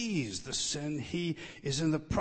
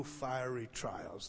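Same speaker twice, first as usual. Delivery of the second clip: slow soft emphasis; 3 semitones lower, 6 dB quieter, much slower than usual. Shown as a demonstration. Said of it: "It's emphatic".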